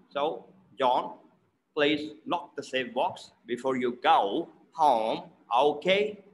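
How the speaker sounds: short O in "John", "lock", "box", gliding ah-oh in "go home"; "go home" as "gah-oo hah-oom", "lock" kept short; mixed O sounds. Shown as a demonstration. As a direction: contrast short rounded "box" with drawn-out "home". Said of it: "the mixture of both".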